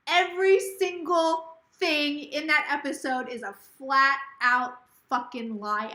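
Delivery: slow, deliberate, indignant quote; quoting the angry manager. Retold or imitated. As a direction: lay out each word like a verdict. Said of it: "And that is a quote".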